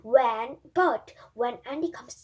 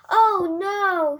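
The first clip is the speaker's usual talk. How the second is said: higher, louder sudden gasp of alarm; 7 semitones higher, 9 dB louder than usual. A narrator's reading. Boy knocking the clock off, sudden alarm. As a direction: cry out as the clock falls.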